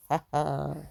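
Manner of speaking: short, low scoffing "haa"; scoffing laugh. Real, not acted. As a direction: let out a low, quiet laugh of disbelief. Scoffs at quoted remark.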